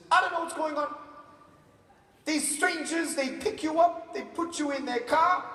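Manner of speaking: high-pitched, mock-alarmed mother; concerned mom. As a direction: lay out suspicions like a fretting mum. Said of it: "I'm very concerned".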